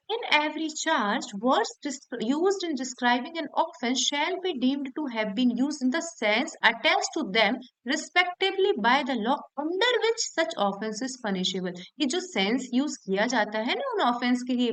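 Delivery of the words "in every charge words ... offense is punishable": slow, deliberate reading of legal text; slow, careful reading of a law clause to students; slow statute reading. Shown as a demonstration. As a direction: read the section out word by word, slowly. Reads section text aloud.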